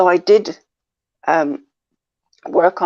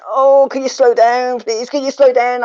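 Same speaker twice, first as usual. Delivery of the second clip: higher, louder frantic begging for a pause; exasperated plea; 6 semitones higher, 6 dB louder than usual. Retold or imitated. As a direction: plead as if overwhelmed by the speed. Acts out pleading with fast-talking trainer.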